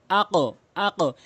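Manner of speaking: slow আকো with the qaf bounced up; upward qalqala. Shown as a demonstration. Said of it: "উপরের দিকে sound করতে হবে".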